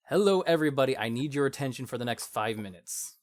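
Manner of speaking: presenting voice. Shown as a demonstration. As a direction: stand tall and call the room to attention. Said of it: "just get the voice going".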